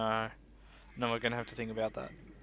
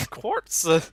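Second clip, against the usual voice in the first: squeaky shout; 6 semitones higher, 13 dB louder than usual. Acted. Silly shouted item call.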